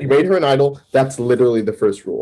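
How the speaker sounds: dry, cutting, pointed sarcasm. Retelling what God said in a conversation: imitating a sarcastic voice. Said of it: "like, sarcastically".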